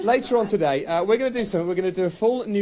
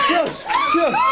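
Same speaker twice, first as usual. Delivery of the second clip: sharp party shush. Real, not acted. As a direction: hush the whole room at once. Hushing a loud crowd.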